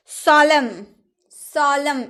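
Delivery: सॉलम ending on m; सॉलम with no n sound; silent n. Shown as a demonstration. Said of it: "इसमें भी एन का उच्चारण नहीं हुआ". (सॉलम, न मौन)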